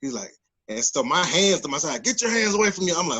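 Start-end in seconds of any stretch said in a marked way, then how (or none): 2.0-2.9 retold agitated command, pitched up; amped-up cop. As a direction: imitate a high, urgent police order. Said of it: "he's already amped up".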